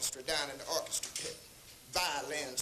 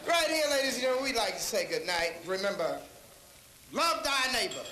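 announcer sign-off; 4 semitones higher, 4 dB louder than usual. Real, not acted. Closing sign-off.

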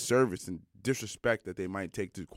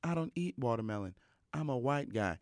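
deadpan coach; 4 semitones higher, 3 dB quieter than usual. Retold or imitated. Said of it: "he said just like that".

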